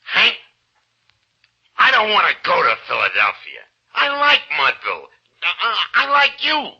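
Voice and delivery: halting, heartfelt admission rising in pitch; earnest confession. Acted. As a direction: confess your attachment, hesitantly. Casey confesses he wants to stay.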